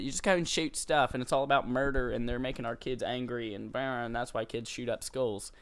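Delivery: lightly put-on complainer voice; mocking critics' voice. Host parodying people who blame games, mildly mocking voice. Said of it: "why they say it in that voice".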